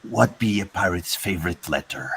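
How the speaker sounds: a hint of pirate, almost plain; lightly voiced pirate telling a joke. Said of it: "let me try my best pirate voice".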